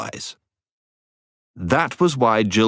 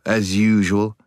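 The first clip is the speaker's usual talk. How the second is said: grim; slower than usual. A narrator's reading. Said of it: "said the boy grimly".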